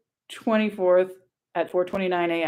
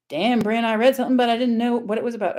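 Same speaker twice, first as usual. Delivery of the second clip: lightly attempted Michigan accent, higher toward the end; 3 semitones higher than usual. Reading out a follower's comment to viewers, attempted Michigan accent. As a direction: have a rough go at a Michigan accent. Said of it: "how to do a Michigan accent".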